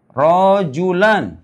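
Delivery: very slow Rojulan, held; slow model word. Shown as a demonstration. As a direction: stretch Rojulan syllable by syllable.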